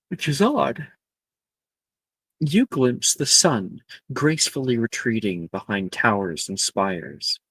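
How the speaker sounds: measured, evocative narration with pauses; game master scene setting. Acted. Game master opens on Hogwarts at twilight, measured scene setting.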